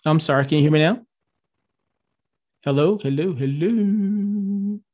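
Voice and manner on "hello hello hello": call dropping out. Real, not acted. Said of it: "Jim, I've lost your audio".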